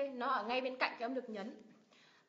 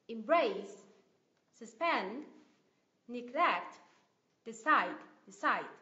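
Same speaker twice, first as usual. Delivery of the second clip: spaced-out drill, "decide" louder on CIDE; second-syllable stress; 3 dB louder, much slower than usual. Shown as a demonstration. Teacher reviewing two-syllable verbs, stress on second syllable. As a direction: punch BRACE, PEND, GLECT and CIDE in "Embrace, suspend, neglect, decide". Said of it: "động từ, nhấn vào tiết thứ".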